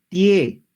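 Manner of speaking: clear, loud model syllable tie; drill syllable tie. Shown as a demonstration. Teacher modelling tie for students, loud and clear. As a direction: say tie out loud for the class to copy. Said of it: "A ver, conmigo, todos".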